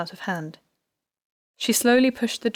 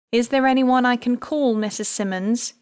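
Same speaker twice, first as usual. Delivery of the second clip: repeated gently; 4 semitones higher, 4 dB louder than usual. A narrator's reading. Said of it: "she repeated".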